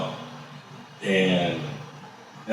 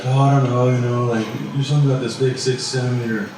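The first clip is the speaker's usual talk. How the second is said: imitating the nurse; 5 semitones higher than usual. Nurse voiced with her news.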